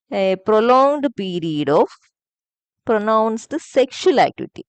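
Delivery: very slow, word by word dictation; deliberate dictation pace, leaving pauses to write. Shown as a demonstration. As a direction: spell out the definition slowly for notes. Teacher dictating a definition.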